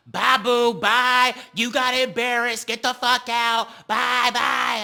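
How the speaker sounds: loud, high taunting goodbye; mocking Ivory's gloating send-off. Recapper voicing Ivory gloating at Mel, loud and high. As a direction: wave her off loud and smug. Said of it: "She's like".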